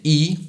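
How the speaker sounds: E with lips spread wide; E said long with spread lips. Shown as a demonstration. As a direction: say E with a wide smile shape. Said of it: "you'll clearly see that your lips are spread out".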